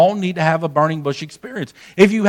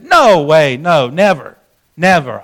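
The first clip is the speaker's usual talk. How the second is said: emphatic refusal; 4 dB louder, slower than usual. Retold or imitated. Refusing the pastor's request, retold.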